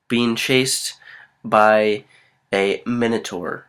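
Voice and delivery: slow, halting dramatic storyteller; story narration. Acted. Co-host adding a cave bear to an improvised story, dramatic narration. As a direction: draw it out with suspenseful pauses.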